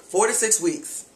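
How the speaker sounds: drawn-out clerk answer; slow flat quote. Retold or imitated. Retelling the clerk's slow answer. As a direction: spell it out slowly like a bored clerk. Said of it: "how long does it take".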